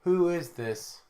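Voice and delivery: slow robot voice. Pretend. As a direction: say it slowly like a robot. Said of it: "put on my best robotic voice".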